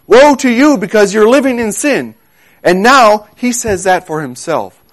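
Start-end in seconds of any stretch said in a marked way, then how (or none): 0.0-2.1 high-pitched, emphatic prophetic warning; raised-voice pronouncement of woe. Acted. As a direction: warn a whole people, drawing out "Woe". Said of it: "sent from God to warn the children".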